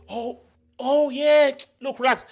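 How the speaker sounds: high-pitched imitation of a dodging borrower; loud, high mock stalling; mock brush-off. Voicing the borrower brushing him off.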